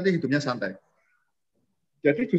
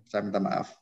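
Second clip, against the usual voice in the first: humble apology; 8 semitones lower, 7 dB quieter than usual. Shown as a demonstration. Apology demo again.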